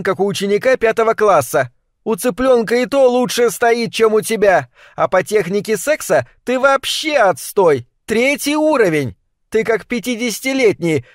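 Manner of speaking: a hint of a scornful wife reciting the list; nagging wife. Wife reading out complaints.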